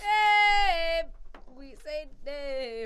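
talking around a cigar; words mumbled past a cigar; cigar in mouth. Pretend. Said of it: "cigar in my mouth".

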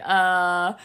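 a loud, put-upon "uh"; mock groan. Imagining the listeners groaning at a heavy episode. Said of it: "I know you're probably like".

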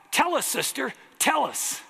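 high, loud call-and-response; congregation call. Retold or imitated. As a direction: shout it back like an eager congregation. Congregation shouting back.

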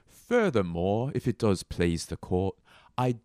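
put-on failed British courtroom accent; botched Yorkshire accent. Addressing the court, failed Yorkshire accent. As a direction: attempt Yorkshire, badly. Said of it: "wow, that's not it at all".

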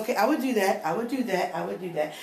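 self-soothing repetition that trails away; calming myself down. Retold or imitated. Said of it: "I had to calm myself down".

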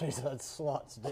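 laughing Beavis voice; Beavis impression. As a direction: giggle it like Beavis. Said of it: "he's like".

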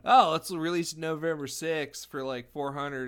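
loud, slow surfer dude. Retold or imitated. Mocking console makers who promise a November release, surfer voice. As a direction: stretch it out like a surfer. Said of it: "I went with the surfer voice".

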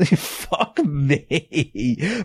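laughing through the words. Real, not acted. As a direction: crack up as you say it. Laughing at his own rant.

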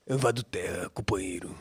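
low, slow Lula impression; lightly voiced Lula. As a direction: drag it out like Lula. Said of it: "imitar o Lula".

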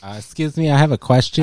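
high, polite little student voice; mock schoolkid. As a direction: ask like an eager child in class. Playing student in class.

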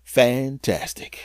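slow, dry, sarcastic fantastic; slow dry sarcasm; deadpan. Retold or imitated. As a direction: drag it out flat and unimpressed. Deadpan refrain after each check.

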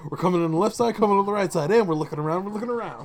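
loud, high mock soldier radio chatter; mocking movie dialogue. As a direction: ham up the cheesy action-movie lines. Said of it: "what kind of dialogue is that?".

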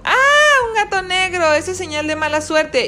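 high-pitched frightened gasp into words; startled girl. A narrator's reading. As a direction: jump back in alarm at a bad omen. Girl startled by black cat.

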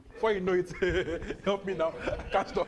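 helplessly tickled, words broken by laughs; overtaken by laughter. Real, not acted. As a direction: talk through laughter that is taking over. Laughter takes over while explaining it.

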